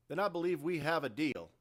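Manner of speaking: loud, high voiced deal-closer; satisfied marine. Carr seals the deal.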